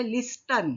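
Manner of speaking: "Listen" with the silent t sounded, as lis-ten; spelling pronunciation. Shown as a demonstration. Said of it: "बोलताना आपण लिस्टन बोलायचं नाही".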